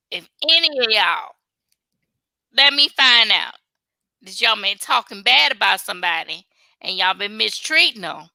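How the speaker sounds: a light put-on country accent quoting Daddy Joe. Retelling Daddy Joe's warning in a slight country accent. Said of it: "that country accent".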